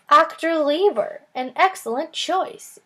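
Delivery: put-on a grand German accent, savouring each word; thick German accent. A narrator's reading. Hologram praising the kids' pick, thick German accent. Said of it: "said a man with a thick German accent".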